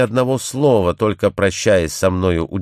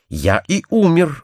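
slow, higher-pitched grim reply; understated dreadful tone; 8 semitones higher than usual. A narrator's reading. Stranger answers the woman who thought him dead, understated dreadful tone. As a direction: narrate it slowly with a touch of dread. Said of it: "каким ужасным тоном произнесены были эти слова".

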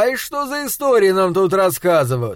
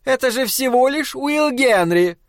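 booming wife; 9 semitones higher than usual. Acted. Big wife's voice.

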